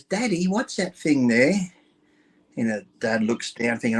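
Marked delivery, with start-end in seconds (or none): 0.0-1.5 put-on higher, slow little-girl question; lightly voiced curious little girl. Little girl asking her father in the shower, lightly voiced child. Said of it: "she looks up and goes".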